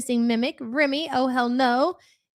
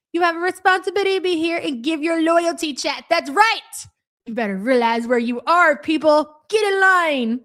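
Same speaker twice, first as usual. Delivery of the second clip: mock stern command; 4 semitones higher, 4 dB louder than usual. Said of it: "Imagine it being that serious".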